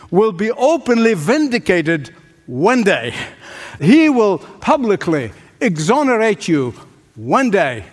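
measured oratory with spaced-out phrases; rhythmic sermon promise; emphatic preaching. Real, not acted. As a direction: declare each promise to a congregation, pausing between phrases. Preacher's solemn rhythmic declaration of promises.

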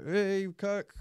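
high, loud friendly hail from passers-by; calling out. Retold or imitated. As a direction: shout a cheery greeting across the street. Imitating people calling to him.

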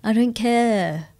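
slow, a touch sarcastic brush-off; sarcastic deflecting voice. Acted. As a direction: play it cool to hide the feelings. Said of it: "sarcastic voice".

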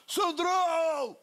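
high, slow calling-out of "Sandrão"; imitating a singer shouting a name; retold shout. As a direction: call across the street, drawn out. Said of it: "Gritando aqui assim".

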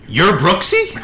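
high excited question; as if meeting a celebrity; surprised fan. Retold or imitated. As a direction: couple at the airport meet the wife. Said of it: "the people go".

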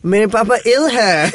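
high, slow, laughing pleading; American mangling Hindi, pleading; American Hindi accent. Retold or imitated. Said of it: "most American Hindi accent ever".

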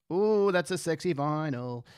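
slow, lingering ooh of approval; drawn-out admiration. Real, not acted. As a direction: savour every word, stretching it out.

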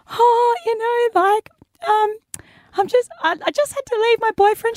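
high, halting, weepy excuse; hammed-up high-pitched sniveling voice; mock tearful. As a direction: act out an embarrassed, tearful explanation. Retells her tearful answer to stranger.

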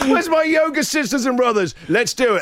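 the opposite of a calm yoga teacher, all hype; hyped-up yoga teacher. Pretend. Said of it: "I'd be a terrible yoga teacher".

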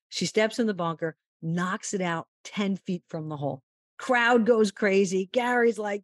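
usual speaking voice

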